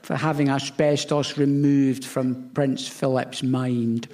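high, slow mock Scottish accent. Mocking Nicola Sturgeon's voice to the panel, in a Scottish accent. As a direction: put on a hammed-up Scottish accent. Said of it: "that was your accent".

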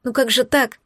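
begging him through tears; sobbing plea. Acted. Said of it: "Зарыдала я у него на груди". (рыдая, умоляюще)

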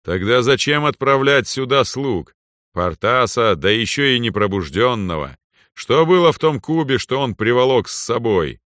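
proud overlord speaking down; arrogant lord. Acted. Lord demands answers.

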